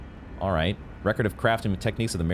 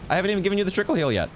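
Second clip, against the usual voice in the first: frantic calling out; 9 semitones higher, much faster than usual. Real, not acted. Summon runs off unhealed.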